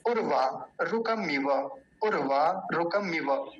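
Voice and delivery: उर्वा रुकमिव said slowly, every vowel short and clipped; careful recitation. Shown as a demonstration. Teacher showing students the right pronunciation, slow and careful. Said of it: "आपको उच्चारण करके बता देता हूँ".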